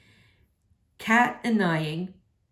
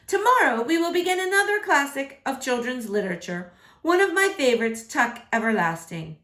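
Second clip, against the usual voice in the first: higher, quick teacher announcement; 5 semitones higher than usual. Acted. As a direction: rush through it like an eager teacher. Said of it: "Miss Hardwick says".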